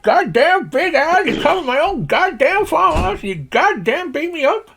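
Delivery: high-pitched indignant holler, stretched out; irate Slim Pickens. Acted. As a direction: rant like an outraged cowboy old-timer. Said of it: "If you imagine Slim Pickens".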